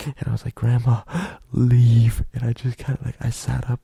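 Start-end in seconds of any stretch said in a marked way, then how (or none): 0.5-2.2 loud, firm order to grandma to go; sharp command. Retold or imitated. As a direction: bark it out: leave now. Telling grandma to leave.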